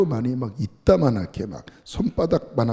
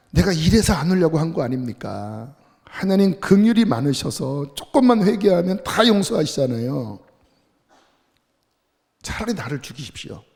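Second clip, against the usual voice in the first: complaining to God; 4 semitones higher than usual. Retold or imitated. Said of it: "하나님께 막 대들기 시작합니다".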